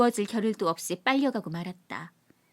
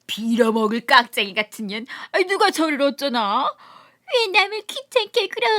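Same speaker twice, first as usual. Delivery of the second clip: high, sharp mock woman's voice; nightingale-voice lady; 4 semitones higher, 6 dB louder than usual. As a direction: mimic her shrill refusal for laughs. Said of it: "정말 꾀꼬리 같은 소리를 내었다". (꾀꼬리 같은 여자 목소리 흉내)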